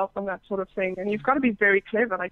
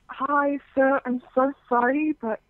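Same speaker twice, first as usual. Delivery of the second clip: politely apologetic, slightly raised pitch on the greeting; polite, vanilla. Retold or imitated. Guest retelling her message to a client, polite. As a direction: gently point out a mistake. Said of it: "my polite self, who was very vanilla".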